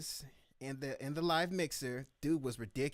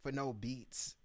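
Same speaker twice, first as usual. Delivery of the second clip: disrespectful tone. Retold or imitated. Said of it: "the tone to me was pretty disrespectful".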